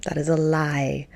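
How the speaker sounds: hushed, slow whisper of the warning; whispered warning: that's a lie. Shown as a demonstration. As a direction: breathe it as a secret warning. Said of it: "because that is a lie".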